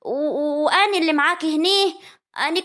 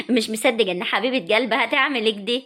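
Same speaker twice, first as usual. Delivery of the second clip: mocking laugh; 5 semitones lower than usual. Sara mocking her mother-in-law.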